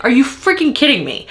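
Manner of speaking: first take plain disbelief; exasperated. Real, not acted. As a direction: stress freaking, falling at the end. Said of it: "I'm so mad right now".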